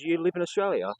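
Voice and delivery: high, loud incredulous mock yell; retold yelling. Man by the fridges challenging the other, retold yelling. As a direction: imitate yelling from the back of a shop. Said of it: "he's yelling out from the back of the server".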